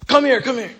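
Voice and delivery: retold scream. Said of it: "then he screams".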